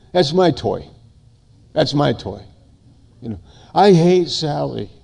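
a hint of a possessive little kid; lightly voiced child. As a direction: lightly act out a petulant child. Preacher voices quarrelling kindergarten child.

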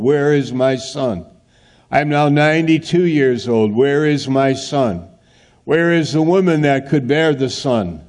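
lightly voiced aging Abraham, pleading; a touch of an old man's anguished plea; voicing Abraham. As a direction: ask where the son is, rising in despair. Abraham voiced, growing old waiting.

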